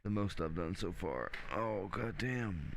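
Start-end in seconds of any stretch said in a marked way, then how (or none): 1.5-2.7 getting a leg cramp. Real, not acted. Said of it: "My leg cramped up".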